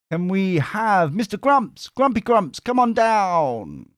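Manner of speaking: high, drawn-out mock announcer call; game-show summons. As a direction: summon a contestant, stretching the last words. Mock summons to a chat member.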